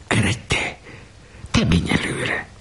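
hushed, nervous nudging; whispered urging. A narrator's reading. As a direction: whisper it, boys pushing each other forward. Boys nudging each other by bedside. (fiúk suttogva biztatják egymást)

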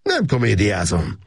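curt, cold denial. Acted. Gábor coldly denying to Erzsébet, curt and cold. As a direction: shut her down coldly. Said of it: "mondta ridegen".

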